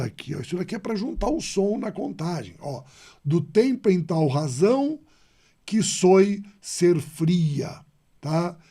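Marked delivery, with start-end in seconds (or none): 3.2-7.8 slow, deliberate verse reading; slow scansion reading. Shown as a demonstration. Teacher reading a verse slowly for students. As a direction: stretch each syllable so the class hears the metre. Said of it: "Então, ó, vejam".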